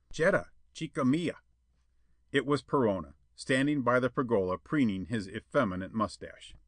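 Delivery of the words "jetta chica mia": higher, coaxing lover's call in a put-on voice; soft ingratiating suitor. A narrator's reading. Suitor coaxing Jetta from her window, soft and ingratiating. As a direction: sweet-talk her to the window. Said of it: "a soft, ingratiating voice".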